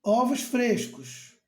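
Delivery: "Ovos frescos" read out slowly like a sign. Shown as a demonstration. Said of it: "outra placa assim". ("Ovos frescos" lido devagar, como quem lê uma placa)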